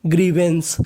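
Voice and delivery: ग्रीवेंस drawn out slowly; slow, careful demo. Shown as a demonstration. Teacher slowly pronounces ग्रीवेंस for students. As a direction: stretch out ग्रीवेंस for the class. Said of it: "क्या बन गई?".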